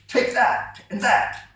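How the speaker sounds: high, slow, furious devil yell. A narrator's reading. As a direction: beat him with each word. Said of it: "yelled the furious devil".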